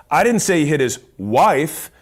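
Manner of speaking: didn't hit hard, falling end; stress on DIDN'T. Shown as a demonstration. Showing how stress on didn't changes a sales line. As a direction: punch the word didn't in I didn't say he hit his wife. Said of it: "four different ways of saying that statement".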